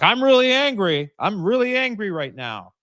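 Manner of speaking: hammed-up raving gunman; angry hostage taker. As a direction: ham up an unhinged hostage taker's demands. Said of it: "the hostage taker is, like, out of his mind".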